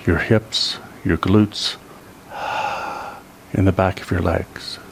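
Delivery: calm body-scan voice with long pauses; guided relaxation. Real, not acted. Teacher leads seniors through releasing neck and back, guided relaxation. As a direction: guide them gently through releasing each muscle.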